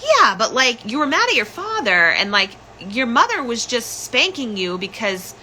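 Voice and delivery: a hint of the cousin explaining; cousin's voice. Cousin on the phone, lightly voiced and reasoning. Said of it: "my cousin at the time was like".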